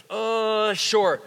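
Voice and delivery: grudging "Uh," then a flat "sure."; reluctant "uh, sure". Retold or imitated. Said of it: "How different?".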